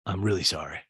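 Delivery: a hint of sincere drunk Craig; imitating Craig. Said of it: "Craig goes".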